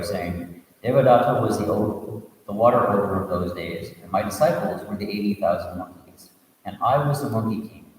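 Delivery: steady storytelling read, voicing the characters lightly; story narration. A narrator's reading. Teacher reading a Buddhist tale to students, storytelling voice. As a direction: read the tale aloud to the class.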